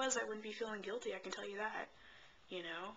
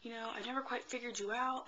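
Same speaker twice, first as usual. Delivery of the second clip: mom's tearful words, raised high and half-whispered; imitating mom crying; 6 semitones higher than usual. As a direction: retell her sobbing line, pitched up and lightly mocked. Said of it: "like, bawling".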